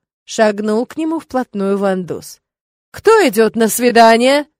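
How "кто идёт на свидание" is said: sudden loud, stern demand; thunderous demand. Acted. Rector catching students in the corridor, loud stern demand. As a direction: boom it out like a thunderclap. Как гром среди ясного неба.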